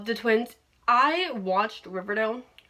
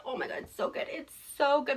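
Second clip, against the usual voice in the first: gushing; 3 semitones higher, 5 dB quieter than usual. Real, not acted.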